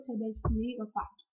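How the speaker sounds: speaking around mouthpiece; hookah hose at lips. Real, not acted. Seen 0: Mouthpiece held at or against lips while she speaks.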